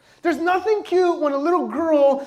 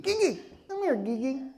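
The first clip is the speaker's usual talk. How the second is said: put-on baby talk; 6 dB quieter than usual. Shown as a demonstration. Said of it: "it changes your voice".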